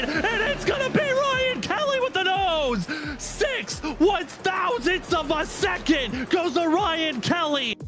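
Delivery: shouted photo finish call; excited race call. Real, not acted.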